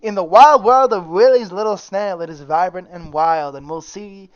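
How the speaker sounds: narrator voice. Shown as a demonstration. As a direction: announce it like a story narrator. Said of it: "let me do it in my narrator voice".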